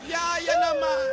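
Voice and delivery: slow, high fake sob; mock crying whine. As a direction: whimper it like a wronged grandma. Grandma whining to maid.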